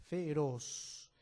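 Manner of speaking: Feroz drawn out toward ROZ; stress on last syllable. Shown as a demonstration. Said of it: "El énfasis está en la última sílaba".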